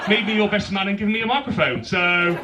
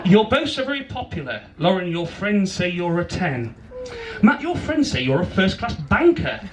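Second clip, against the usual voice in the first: measured rhyming wedding poem; poem recital; 3 semitones higher than usual. Real, not acted. Best man reads his poem to bride and groom, poem recital. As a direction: recite it line by line with pauses.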